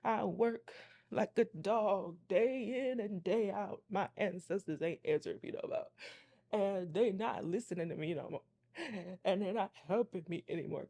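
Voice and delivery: lightly acted, emphatic lament; mock woe-is-me griping; put-upon complaining friend. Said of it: "she was making it seem like".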